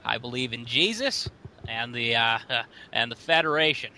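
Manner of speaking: earnest nerdy believer voice; Christian nerd voice. Acted. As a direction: play a sincere churchy nerd. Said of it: "the Christian nerd voice".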